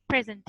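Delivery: प्रेजेंट with the stress on its first syllable. Shown as a demonstration. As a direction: put the weight on the opening P of प्रेजेंट. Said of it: "पी के ऊपर बहुत ज़्यादा stress". (प्रेजेंट के पहले अक्षर "प्रे" पर ज़ोर)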